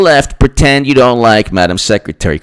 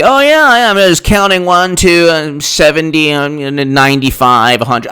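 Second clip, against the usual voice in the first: mock caucus counter; 2 semitones higher than usual. Mocking caucus vote counter.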